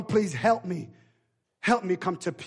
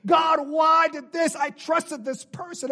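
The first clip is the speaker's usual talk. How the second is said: raised, pleading shout that fades out on the last line; anguished cry to God; 5 semitones higher than usual. Acted. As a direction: cry out to God in grief, then let it drop. Acted anguished prayer to God.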